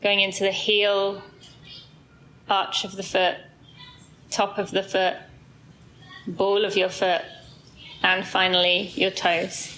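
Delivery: slow, even meditation voice with long pauses; guided body scan. Real, not acted. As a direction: guide them calmly down the body, unhurried.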